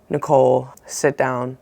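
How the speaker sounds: low, grave summons from a mom; quiet, ominous mock-parent order; negative tone. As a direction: imitate a parent about to give bad news. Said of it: "there's a negative tone being bestowed".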